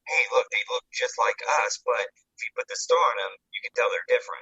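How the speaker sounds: mock officer. Voicing a Nazi officer.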